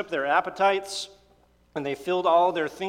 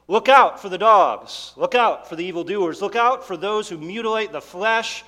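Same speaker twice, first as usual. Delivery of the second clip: urgent warning; 4 semitones higher, 8 dB louder than usual. Acted. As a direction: shout it out like an alarm to the church. Preacher voicing Paul's warning.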